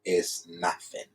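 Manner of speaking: slow deliberate reading. Shown as a demonstration. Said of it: "what is written here?".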